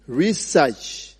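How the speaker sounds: research with one vowel sound; "research" as ree-search; accent variant. Shown as a demonstration. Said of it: "It is just different accents".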